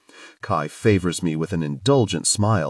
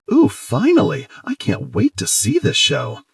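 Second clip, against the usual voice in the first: high, loud eager squeal; excited; 7 semitones higher, 4 dB louder than usual. A narrator's reading. River about to see the show, excited squeal. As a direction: bounce with eagerness.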